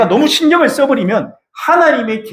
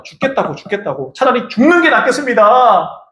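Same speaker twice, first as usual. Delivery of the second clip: whining Jonah; 3 semitones higher than usual. Acted. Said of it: "또 뭐라고 합니까?".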